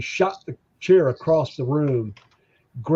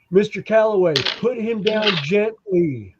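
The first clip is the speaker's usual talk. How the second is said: mock calm cop; 4 semitones higher than usual. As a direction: play a cop talking him down politely. Police officer voice in retold story.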